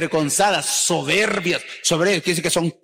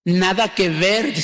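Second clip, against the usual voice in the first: put-on fresa girl; slower than usual. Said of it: "las muchachas que hablan así".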